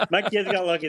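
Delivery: speaking through a laugh, pitch up; laughing at his own joke. Real, not acted. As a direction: still chuckling as he speaks. Laughing after bikini joke.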